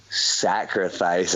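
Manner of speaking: slow, low drawn-out realization; slow dawning realization. Retold or imitated. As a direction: say it as the penny drops. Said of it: "all of the crowd were like".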